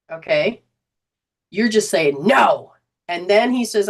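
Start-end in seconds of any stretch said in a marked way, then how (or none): 2.3-2.7 louder, emphatic no; firm refusal. Retold or imitated. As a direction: put force behind the no, as the instructor teaches it. Voicing the firm refusal taught.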